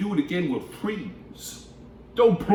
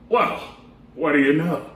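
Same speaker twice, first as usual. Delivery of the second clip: surprised cry; 3 semitones higher, 7 dB louder than usual. Acted. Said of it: "cried the elephant".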